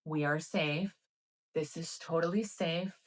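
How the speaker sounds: soft, even inner voice; understated, calming reassurance; reassuring self-talk. Retold or imitated. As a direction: quietly talk yourself into feeling safe. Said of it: "this is all my internal dialogue".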